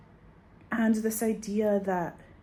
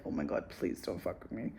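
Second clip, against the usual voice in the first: mock pleading; 11 semitones lower, 10 dB quieter than usual. Pleading with dentist.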